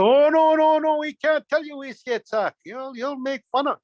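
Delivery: loud, high protest easing off; alarmed refusal. Acted. Birds refusing to tell the trickster their secret, protesting.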